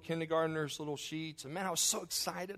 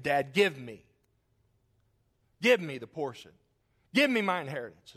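a touch louder, demanding; demanding son; 4 dB louder than usual. Retold or imitated. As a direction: insist on it like a spoiled son. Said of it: "he makes a statement".

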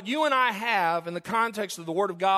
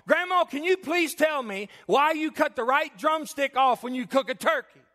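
lightly voiced granddaughter, higher pitch; pleading granddaughter; 4 semitones higher than usual. Granddaughter voiced begging for an answer.

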